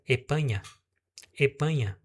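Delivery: "Espanha" with the S gone entirely; dropped S. Shown as a demonstration. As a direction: say "Espanha" as "epanha". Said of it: "some o S". ("Espanha" sem o S)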